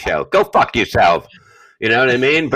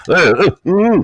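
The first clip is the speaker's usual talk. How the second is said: mock sucking moans; 7 semitones higher than usual. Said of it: "Oh, act like it's the first time".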